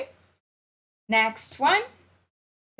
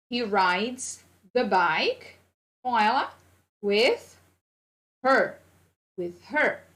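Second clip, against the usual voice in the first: slow model sentence; slower than usual. Shown as a demonstration. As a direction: drag it out, then stress "with her". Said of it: "teacher modelling sentence".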